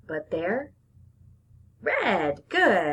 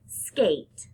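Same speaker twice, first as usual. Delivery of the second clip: whispered word. Shown as a demonstration.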